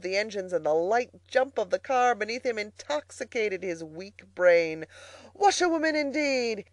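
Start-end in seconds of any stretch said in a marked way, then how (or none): 5.3-6.7 high, loud, indignant cry; wild, offended outburst; reckless shout. A narrator's reading. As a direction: throw the word back scornfully at full voice. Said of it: "he shouted recklessly".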